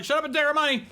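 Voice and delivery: excited. Retold or imitated. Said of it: "we were both like".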